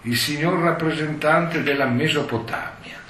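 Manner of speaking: high, ringing formal call; usher's exclamation. Retold or imitated. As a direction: announce like a court usher. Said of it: "E l'usciere esclamò". (annuncio stentoreo)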